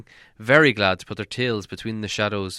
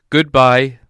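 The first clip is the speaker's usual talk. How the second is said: Gandalf's voice; 3 semitones higher, 11 dB louder than usual. A narrator's reading. Gandalf takes leave.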